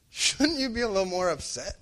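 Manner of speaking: a lightly voiced baffled friend; puzzled coworker. Coworker asking why he isn't upset, lightly puzzled. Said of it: "he just said".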